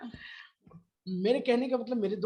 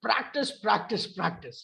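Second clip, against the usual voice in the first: "Practice, practice, practice", fading on the last; repeated mantra; much slower than usual. Shown as a demonstration. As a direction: chant "Practice" like a mantra, dropping off. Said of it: "एक ही मूल मंत्र है".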